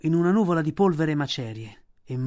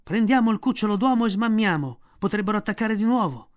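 louder, higher hurried urging; urgent plea; 6 semitones higher, 5 dB louder than usual. A narrator's reading. Balù urges Bagheera to flee, urgent and loud. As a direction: get the boy out, now.

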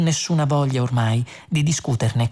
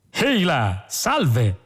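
cheerful; much slower than usual. A narrator's reading. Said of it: "disse tutto allegro".

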